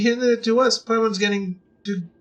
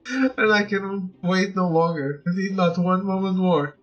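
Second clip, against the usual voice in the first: lovesick admirer's letter. Acted. Player reading a fan's love letter aloud, lightly doting and breathless. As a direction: read it like a smitten secret admirer, savouring the flattery.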